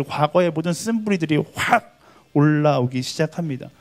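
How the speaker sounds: usual speaking voice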